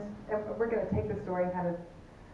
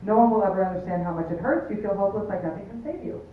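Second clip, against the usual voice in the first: mock sentimental. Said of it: "How's that for a, a Hallmark card".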